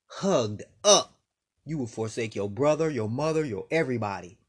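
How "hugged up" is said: Hugged up pitched higher and louder, up rising at the end. Shown as a demonstration. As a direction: lift the word up into a bright rise.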